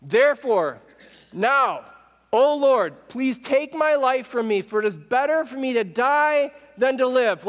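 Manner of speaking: acted complaint with a touch of indignation; aggrieved plea. Acting Jonah's protesting prayer to God.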